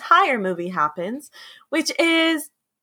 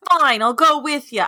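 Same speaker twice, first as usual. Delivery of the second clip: put-on accent; 3 semitones higher, 4 dB louder than usual. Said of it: "why I gave him that accent".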